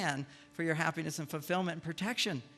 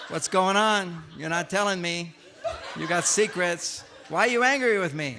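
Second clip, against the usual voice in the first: wife pressing her husband, louder and hurt; mock upset wife; 7 dB louder than usual. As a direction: play the upset wife, hammed-up and loud. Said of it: "She's now really upset".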